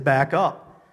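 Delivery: loud, firm retold order; stern command. Preacher repeating his order to a man, stern. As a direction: tell them sternly to step back. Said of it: "That's what I said very sternly".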